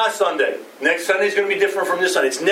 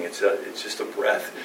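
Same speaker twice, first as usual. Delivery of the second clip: breathy near-whisper, much softer; 9 semitones lower, 7 dB quieter than usual. Real, not acted. Preacher whispering to congregation that life is a breath. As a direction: let the words vanish like breath.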